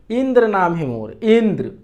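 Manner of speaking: insistent इंद्र, weight on the इं; stress on first vowel. Shown as a demonstration. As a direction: lean on the first vowel each time you say इंद्र. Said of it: "ई पर बल दिया उसने".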